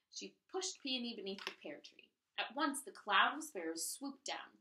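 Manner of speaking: lively read-aloud storytelling voice; story narration. A narrator's reading. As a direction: read it like a picture book for a class. Reads story to children.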